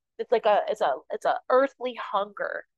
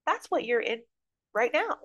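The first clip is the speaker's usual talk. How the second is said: put-on storybook older fish, pitched up and lifting at the end; explaining older fish; 5 semitones higher than usual. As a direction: explain it in a raised character voice. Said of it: "says the older fish".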